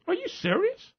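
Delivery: surprised lady. Retold or imitated. Lady caller on the phone.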